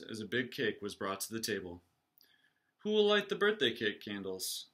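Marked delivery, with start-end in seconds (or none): 2.8-4.7 high, bright-toned mother's question. Acted. Mother asking her family about the cake, higher voice. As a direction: lift up high to ask about the candles. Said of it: "his mother asked".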